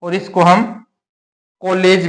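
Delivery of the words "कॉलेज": कॉलेज said as "kaulej", with a full औ; wrong way. Shown as a demonstration. Teacher showing students the other wrong sound. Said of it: "भी नहीं कहते हैं".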